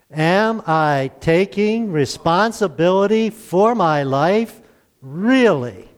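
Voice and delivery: slow group recitation, leaning hard on Really; emphasis on really. Shown as a demonstration. Pastor leads the congregation in the weekly question, stress on Really. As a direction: lead the church in the question, punching Really. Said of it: "with the emphasis on the word re-, really".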